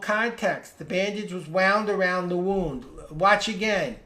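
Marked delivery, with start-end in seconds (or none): 0.8-2.8 "wound" as in found, then "wound" as in crooned; two pronunciations of wound. Shown as a demonstration. Teacher repeating the example on context, "wound" said two ways. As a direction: say "wound" first like "wownd", then like "woond". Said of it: "the W O U N D word is totally different".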